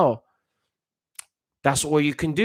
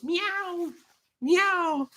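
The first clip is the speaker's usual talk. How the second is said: much higher, softer mock cat meows; 9 dB quieter than usual. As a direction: mew like a timid kitten. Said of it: "it's like they're doing meows".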